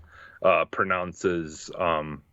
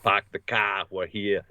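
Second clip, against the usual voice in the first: put-on Boston accent. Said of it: "full Boston accent".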